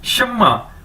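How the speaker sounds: शम्मा with high first syllable, falling "ma"; model pronunciation. Shown as a demonstration. Teacher quizzing learners on the word, model pronunciation. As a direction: start शम्मा high, then drop on the end. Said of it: "इसको कैसे बोलेंगे?".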